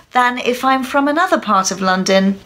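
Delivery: highbrow put-on Oxbridge English; Oxbridge accent. Shown as a demonstration. Teacher showing another part of London, highbrow Oxbridge accent. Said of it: "to a much higher brow Oxbridge accent".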